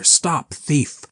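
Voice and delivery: cry out. A narrator's reading. Huckster shouts after the thief, loud and high. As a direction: call it across the street. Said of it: "cried Huckster".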